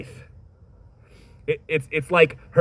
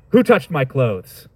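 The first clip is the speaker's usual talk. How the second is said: stern important man; slower than usual. Shown as a demonstration. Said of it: "that's how you might expect him to say it".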